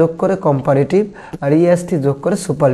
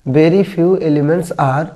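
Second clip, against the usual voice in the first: very slow, word by word, as if dictating; slow dictation; much slower than usual. Shown as a demonstration. Teacher dictating the answer to the class, very slow and deliberate. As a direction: spell it out slowly for students to copy.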